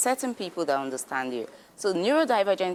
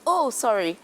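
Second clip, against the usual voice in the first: retold scream; 5 semitones higher, 3 dB louder than usual.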